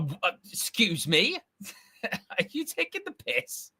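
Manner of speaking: a hint of a squeaky, incredulous self, laughing; lightly mocking outrage; mock indignant. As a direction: play your own outraged reaction for laughs. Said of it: "I'd be like".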